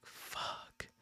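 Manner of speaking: whispered swear of dismay; muted curse. Retold or imitated. Retelling news the party was shut down, muted curse. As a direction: let the curse out almost without voice. Retold dismay at shutdown, near silent.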